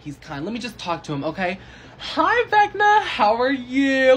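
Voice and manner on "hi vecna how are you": high, loud, very slow sugary hello; sweet greeting. Acted. Girl greets the monster Vecna in a sugary, slow, high hello. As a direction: coo at him like he's harmless.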